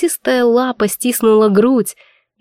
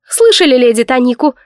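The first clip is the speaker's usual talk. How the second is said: grumbling; 3 semitones higher, 5 dB louder than usual. Acted. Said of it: "проворчала мама".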